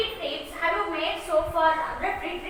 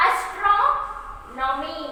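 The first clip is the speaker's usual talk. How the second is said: ASTRONOMY slowly, leaning on the O of "tro"; teacher's slow Astronomy, stressed on TRO; stress on vowel; much slower than usual. Shown as a demonstration. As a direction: draw out "tro" in Astronomy, then a break before "nomy". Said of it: "Do not stress the consonants".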